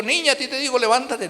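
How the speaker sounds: ordenando con arrogancia fingida; orgulloso. Retold or imitated. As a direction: como un Jesús altivo que manda sin cariño. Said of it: "con todo su orgullo". (con orgullo impostado, sin ternura)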